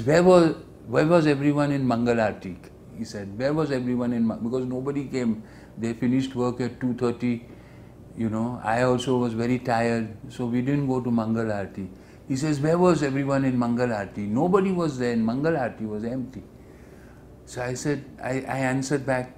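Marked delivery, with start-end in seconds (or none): 0.0-2.6 loud, high angry demand; furious guru. Retold or imitated. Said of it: "And Prabhupada was furious". 3.4-11.9 lightly furious rebuke. Retold or imitated. 12.7-16.4 furious guru. Retold or imitated. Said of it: "He was so furious".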